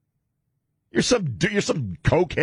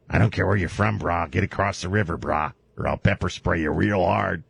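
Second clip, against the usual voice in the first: Dog the Bounty Hunter impression; 6 semitones lower than usual. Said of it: "Dog the Bounty Hunter".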